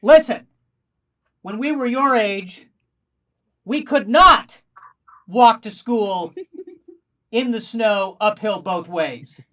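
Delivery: loud, slow, preachy grumble; lecturing old-timer. Pretend. Parents lording it over their own children, slow and loud. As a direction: lord it over the kids like a grumpy old-timer.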